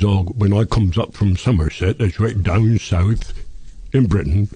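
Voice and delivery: rural West Country English accent; Somerset accent. Shown as a demonstration. Host proving accents differ down south, Somerset accent. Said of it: "when a man from Somerset says".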